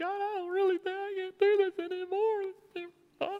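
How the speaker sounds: put-on very high, drawn-out complaining whine. Retelling Moses's complaint to God from Numbers 11, imitating Moses whining. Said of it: "It was probably more of a whine".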